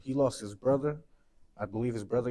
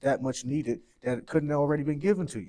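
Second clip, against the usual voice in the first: louder, higher, pleading rant; passionate rant; 3 semitones higher, 3 dB louder than usual. Real, not acted. Mourning friend rants to host about the community, louder and higher. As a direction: let the frustration pour out. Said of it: "and this is a little rant".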